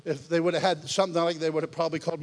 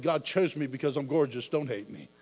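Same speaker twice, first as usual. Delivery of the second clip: mock vanity; 3 semitones lower than usual. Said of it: "many of you probably think".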